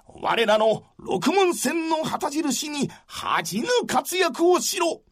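stern general rallying his men, rising to a shout; commanding warlord. Acted. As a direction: command the troops, build to a roar. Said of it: "こう言い放つと".

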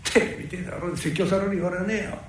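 normal talking voice

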